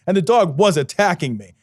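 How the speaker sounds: ordinary delivery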